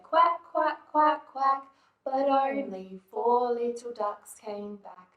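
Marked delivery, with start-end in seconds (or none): 0.0-1.6 high, louder quacks; mother duck quacking. Acted. Mother duck calling her ducklings, high quacking. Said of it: "Mother duck said".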